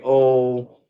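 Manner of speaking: slow, lightly mocking excuse voice; lightly voiced customer service rep brushing off a complaint; mock company excuse. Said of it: "Verizon does say".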